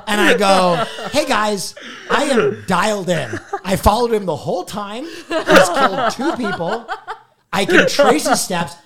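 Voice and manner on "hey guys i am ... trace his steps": insistent retelling. Retold or imitated. Retold plea, nobody listening.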